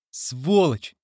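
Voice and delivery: put-on boy yells the insult; mild acted yell; narrated shout. A narrator's reading. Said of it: "закричал Билли".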